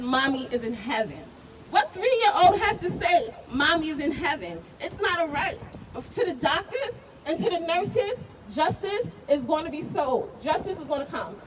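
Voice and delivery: loud, raw, grieving anger; upset and hurt. Real, not acted. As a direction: push it out, hurt and outraged. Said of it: "I'm upset. I'm hurt".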